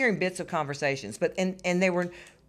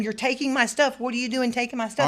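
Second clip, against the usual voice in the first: higher-pitched mock yell at the men; retold screaming; 6 semitones higher, 3 dB louder than usual. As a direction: replay the shout at the movers, pitched up. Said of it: "I was screaming at them the whole time".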